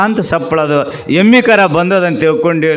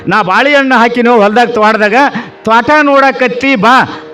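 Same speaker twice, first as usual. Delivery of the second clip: calling out; 5 semitones higher than usual. Acted. Son-in-law urges father-in-law along.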